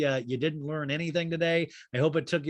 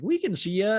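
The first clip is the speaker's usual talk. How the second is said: doctor's office; 6 semitones higher, 4 dB louder than usual. Retold or imitated. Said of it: "and they're like".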